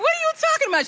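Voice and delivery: high, sharp mock outrage; indignant disbelief. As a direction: act offended and confused. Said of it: "And I was like".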